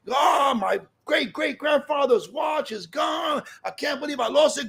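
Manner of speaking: slow, anguished, half-shouted wail over the lost watch; frantic cry. Retold or imitated. Husband frantic about lost watch.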